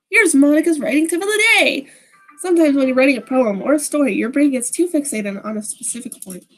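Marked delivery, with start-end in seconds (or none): 0.1-1.9 lightly voiced game heroine, pitched up, presenting; chirpy announcer. Club president announces her writing tip, chirpy announcing. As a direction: announce it brightly in a higher voice.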